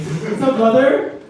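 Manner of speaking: "brother" with a heavy final R; hard-R brother. Acted. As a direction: greet a buddy, hitting the R in "brother" too hard. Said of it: "fuck off with that R".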